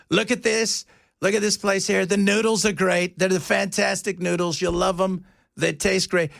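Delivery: lightly imitated presidential impressionist; a hint of a salesman's boastful patter; Donald Trump. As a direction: mildly mimic a famous politician praising food. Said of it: "the Chinese guy that does Donald Trump".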